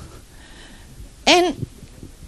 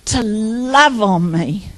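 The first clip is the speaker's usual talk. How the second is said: gentle prayer demo. Shown as a demonstration. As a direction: pray it tenderly, as to a father. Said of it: "And I'd say".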